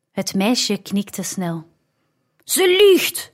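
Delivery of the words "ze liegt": high, loud outraged shriek; screamed. A narrator's reading. Steward screaming that the slave girl lies, loud and high. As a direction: scream the accusation in panic. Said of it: "schreeuwde de rentmeester".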